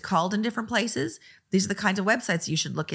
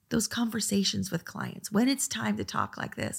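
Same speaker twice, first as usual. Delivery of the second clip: softer, steady business voice; calm low talk; 5 dB quieter than usual. Shown as a demonstration. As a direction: lower the voice and keep it calm and even. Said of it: "the inflection in my voice".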